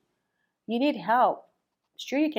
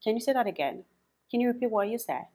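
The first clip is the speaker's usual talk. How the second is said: listeners asking to repeat; 5 semitones higher, faster than usual. Retold or imitated. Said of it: "you keep hearing people say".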